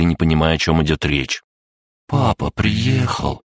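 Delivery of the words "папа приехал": slow, higher, patient explanation. A narrator's reading. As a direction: spell it out slowly in a little dragon's voice. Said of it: "терпеливо пояснил дракоша". (терпеливо, медленно)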